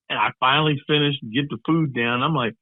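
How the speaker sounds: usual speaking voice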